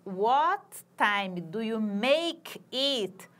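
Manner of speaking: slow, careful model phrase for students; teacher models the question slowly, word by word; slow English demo. Shown as a demonstration. Teacher demonstrating a British question, slow and clear. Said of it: "o inglês britânico".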